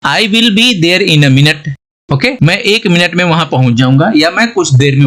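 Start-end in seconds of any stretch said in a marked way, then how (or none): 0.1-1.7 slow, careful English example sentence; slow example read. Shown as a demonstration. Teacher reading an example sentence slowly to students. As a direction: read it word by word. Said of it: "अब sentence बनाते हैं इससे".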